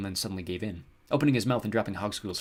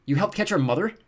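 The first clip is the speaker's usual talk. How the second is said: high, loud indignant question; raised, outraged voice; angry accusation; 10 semitones higher, 7 dB louder than usual. A narrator's reading. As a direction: accuse in disbelief. Jared accuses the goblin.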